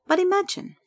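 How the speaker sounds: high, kindly prompt. A narrator's reading. Jessica asks her friend to imagine, kindly. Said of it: "she said kindly".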